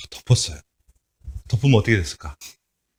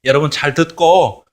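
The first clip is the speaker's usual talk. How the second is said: offhand, half-hearted warning; lazy, indifferent prophet's warning; careless; 2 semitones higher than usual. Retold or imitated. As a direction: toss it off like you don't care. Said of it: "대충 그렇게 이야기했을 거야".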